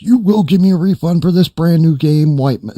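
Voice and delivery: high, loud retold rant; mock screaming, pitched well up; imitated screaming customer. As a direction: yell it like an irate customer demanding his way. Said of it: "screaming in my face".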